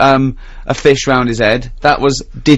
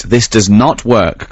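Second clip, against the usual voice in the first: "not" hit hard, slow and deliberate; slow, each word spaced, punching "not"; stress on NOT; 4 semitones lower, slower than usual. Shown as a demonstration.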